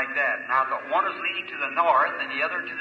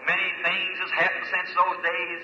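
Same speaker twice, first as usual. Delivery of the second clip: earnest pulpit prayer, swelling and easing; preacher's heartfelt prayer over the meeting; fervent prayer. Acted. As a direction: plead with God for the audience. Preacher leads the congregation in prayer.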